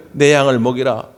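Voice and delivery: ordinary talk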